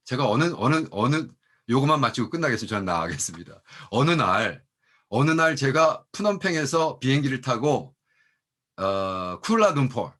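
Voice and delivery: usual speaking voice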